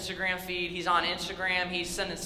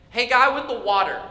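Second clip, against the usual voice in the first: loud, higher-pitched mock call; 4 semitones higher, 8 dB louder than usual. Team in final seconds calling the water guy, mock calling out. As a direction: call across to someone on the bench.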